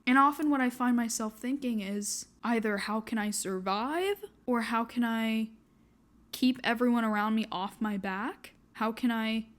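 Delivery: teary shaky voice, close to crying. Real, not acted. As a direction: speak through held-back tears. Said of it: "Sorry for the shaky voice and teary eyes".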